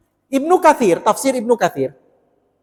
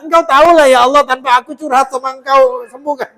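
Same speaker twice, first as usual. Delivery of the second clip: earnest plea; 5 semitones higher, 7 dB louder than usual. Acted. Paraphrasing Ayub pleading with God.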